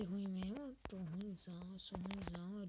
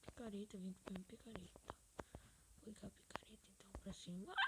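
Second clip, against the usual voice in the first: whispering; 8 dB quieter, faster than usual. Real, not acted. Whispering to himself mid-game.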